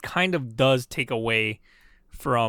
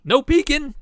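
hammed-up Southern accent, pitched way up; Southern accent try; 12 semitones higher, 6 dB louder than usual. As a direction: take a big swing at Daniel Craig's Southern accent. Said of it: "I can't do it".

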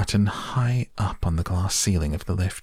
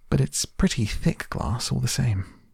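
breezy, higher-pitched lilt; cheerful; 6 semitones higher than usual. A narrator's reading. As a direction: concede it lightly, with unbothered good cheer. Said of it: "cheerful as ever".

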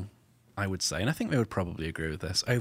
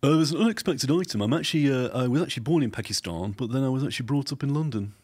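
put-on Pakistani accent; 5 semitones higher than usual. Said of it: "What would it be like in Pakistan?".

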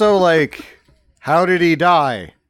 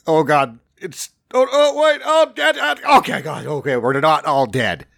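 panicky airbag tester. Retold or imitated. Mocking a man setting off an airbag, hammed-up fright. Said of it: "so afraid of what's gonna happen".

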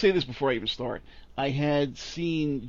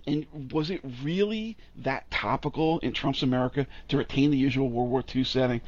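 usual speaking voice

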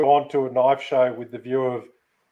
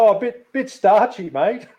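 mock tasting; 6 semitones higher than usual. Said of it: "They go".

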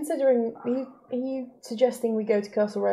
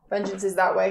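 bellowing shout; 8 dB louder than usual. Acted. Shouted in response to joke.

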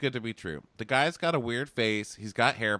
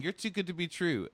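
breathy repeat; 9 semitones higher, 4 dB quieter than usual. Retold or imitated. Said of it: "she keeps saying".

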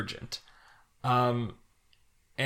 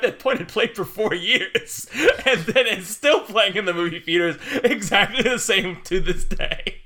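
laughing; 4 semitones higher, slower than usual. Real, not acted. Laughing while explaining.

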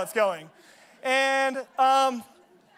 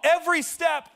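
raised, emphatic coach's lecture; coach's mock yell; 3 semitones higher than usual. Coach lecturing a player in warm-ups, mild mock yell. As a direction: drive each phrase home like a coach. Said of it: "had to yell at me over that".

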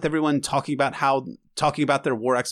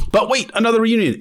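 excited; 8 semitones higher, 6 dB louder than usual. Real, not acted. Excited about the next scene.

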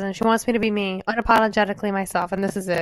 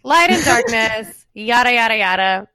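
mocking dismissive; 2 semitones lower, 4 dB louder than usual. Mocking the sentimental speech.

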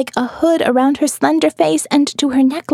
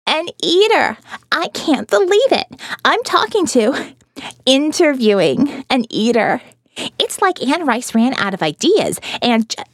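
raised, teasing disbelief; sarcastic. Acted. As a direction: needle him with sarcasm. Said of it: "I pelted him with sarcasm".

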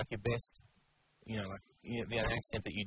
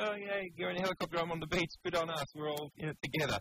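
higher-pitched mock cheer; imitated beachgoer waving; 5 semitones higher than usual. Retelling couple waving at a helicopter, mock cheery. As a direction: play the pleased couple greeting from below. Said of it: "they were waving at it like".

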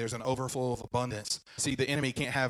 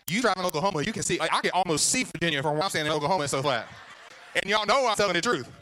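higher, louder playful complaining with laughs; excited comic rant; 4 semitones higher, 3 dB louder than usual. Acted. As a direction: tease the crowd about flat Oklahoma. Comic rant about Oklahoma.

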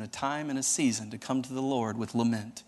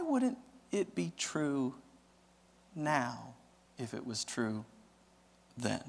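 gentle reassurance. Acted. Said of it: "And God says".

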